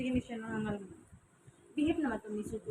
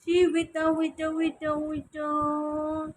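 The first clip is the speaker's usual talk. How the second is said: louder and higher, urging the pet to stay still; louder wait; 4 semitones higher, 5 dB louder, slower than usual. Real, not acted. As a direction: push the waits out louder. Pet squirming, owner insists. (mas malakas na pakiusap sa alaga)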